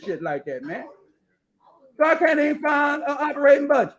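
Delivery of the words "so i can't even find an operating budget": frustrated outburst. Real, not acted. Frustrated searching for budget.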